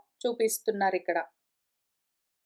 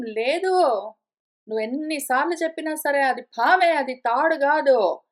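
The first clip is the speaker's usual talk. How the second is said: a hammed-up refusal to be convinced; stubborn arguing. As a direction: dig your heels in, imitating a stubborn arguer. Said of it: "అని argue చేసావంటే".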